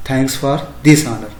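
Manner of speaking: very slow "Thanks for this honor"; slow demo phrase. Shown as a demonstration. Teacher modelling a polite thank-you for students, very slow. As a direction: lay out every word of "Thanks for this honor". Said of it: "तो आप उसको बोलेंगे".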